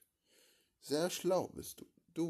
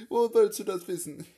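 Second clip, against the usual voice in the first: louder and higher demanding question; loud challenge; 7 semitones higher, 11 dB louder than usual. Acted. Interrogator demanding answers from René, loud and high. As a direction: fire the question at him loudly.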